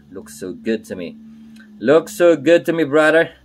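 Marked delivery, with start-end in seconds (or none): 1.8-3.3 louder, higher cheer of approval; pitched up and punched out; loud hype. Real, not acted. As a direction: hype it up loudly to a brother. Hyping up his own work.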